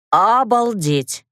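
slow hoarse breathy gasp of shock; raspy whisper. A narrator's reading. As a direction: rasp it out slowly, stunned. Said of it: "просипела я".

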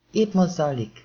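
magasabb, hangosabb, izgatott rikoltás. Acted. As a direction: rikoltsd oda a híradósoknak. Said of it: "rikoltott a híradós asztalnak". (a riporter a híradós asztalnak rikolt, izgatottan)

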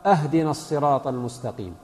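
"اهدنا" opened with a, ahdina instead of ihdina; meaning-changing vowel error. Shown as a demonstration. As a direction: start "اهدنا" on an open a. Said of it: "بمعنى الهدية من الإهداء".

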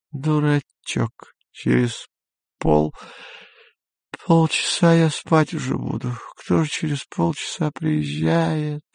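put-on high, slow drunken teasing. A narrator's reading. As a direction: tease sleepily, drunk. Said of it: "пьяный голос Сельмы".

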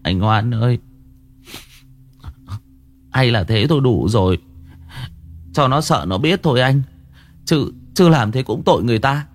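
mildly whimpering younger brother; a touch of a pouting whimper; on the verge of tears. Acted. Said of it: "mếu mếu".

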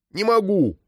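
high, wounded shout; hurt cry. A narrator's reading. Girl protesting to Krylov, offended cry. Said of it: "с обидой выкрикнула девочка".

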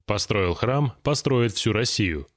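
usual speaking voice

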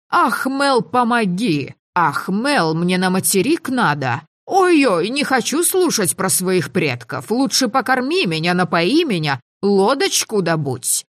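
put-on high, whiny parody of a pleading girl; hammed-up helpless damsel begging; mocking imitation. Mel mocks Tinavi's pleas in a high whiny voice.

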